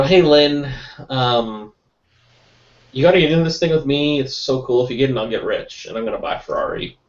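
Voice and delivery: a light imitation of an eager hustler pitching a friend; mock hard sell, a bit pushy and rushed at the end; lightly hammed-up hype man; pushy salesman pitch. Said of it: "if you sound like someone that says".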